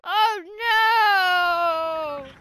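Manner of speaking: shout. Real, not acted. Game loss, shouting.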